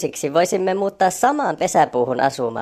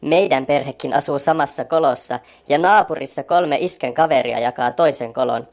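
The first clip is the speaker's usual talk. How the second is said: louder, irritated character voice; getting heated; 2 semitones lower, 5 dB louder than usual. A narrator's reading. Lenni argues with Onni and Orvokki, getting heated. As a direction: defend his family, getting worked up. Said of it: "Lennikin alkaa jo hiiltyä".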